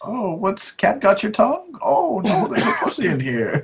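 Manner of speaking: hammed-up high comic voice; mock character. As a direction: squeak it like a silly cartoon figure.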